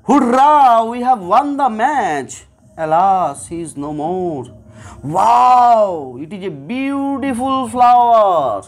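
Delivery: each interjection voiced with its feeling, joy, grief, wonder; teacher acting out hurrah, alas and wow with feeling; emotional exclamations. Shown as a demonstration. Teacher contrasting flat sentences with emotional ones, voiced exclamations. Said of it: "এই দুটো বাক্যের intonation বা আমার যে টোনটা".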